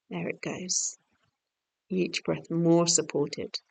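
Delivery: calm, unhurried meditation voice; guided relaxation. Real, not acted. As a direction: gently settle the listener, leaving long pauses.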